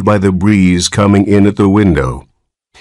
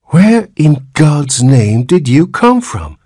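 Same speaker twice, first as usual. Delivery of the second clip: frantic; 9 semitones higher, 3 dB louder than usual. Acted. Frantic father questioning.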